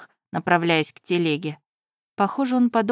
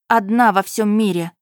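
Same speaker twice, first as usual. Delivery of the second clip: louder despairing shout; desperate cry; 2 semitones higher, 6 dB louder than usual. Acted. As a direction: cry out alone and afraid. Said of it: "Кричала от страха".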